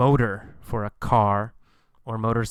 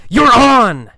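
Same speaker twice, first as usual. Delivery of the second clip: eager, louder and higher: you're on!; excited acceptance; 10 semitones higher, 11 dB louder than usual. Acted. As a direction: snap up the challenge with glee. Acting out accepting the bet.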